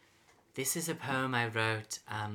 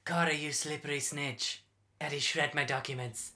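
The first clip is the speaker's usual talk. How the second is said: frantic pleading; 2 semitones higher than usual. Acted. Begging Corey not to snitch.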